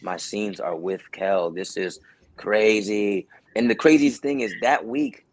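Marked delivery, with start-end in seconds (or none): 0.0-3.3 slow, disbelieving awe; amazed. Retold or imitated. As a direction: let the awe sink in. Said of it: "I'm like".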